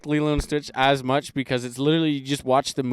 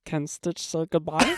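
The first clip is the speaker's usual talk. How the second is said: Stitch voice; 3 semitones higher, 3 dB quieter than usual. Retold or imitated. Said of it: "Can you do a Stitch accent".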